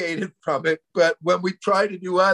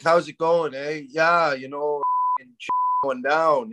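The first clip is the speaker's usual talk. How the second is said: casual, lightly played-up Canadian; Canadian accent. Comic recalling how he used to talk, light Canadian accent. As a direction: chat like a Canadian back home. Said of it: "I would talk like that".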